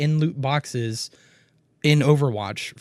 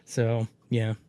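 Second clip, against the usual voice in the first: whisper; 3 semitones lower, 4 dB quieter than usual. Real, not acted. Exasperated aside.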